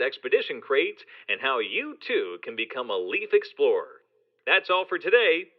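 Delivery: big hyped announcer voice; fighting game announcer. Acted. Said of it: "Let me just get into my announcer voice".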